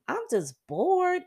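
mock bored sigh. Voicing a bored midlifer.

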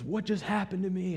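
high-pitched, startled question; retold astonishment, pitch jumping up; bewildered. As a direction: imitate someone shocked on coming to. Man leaps up, bewildered.

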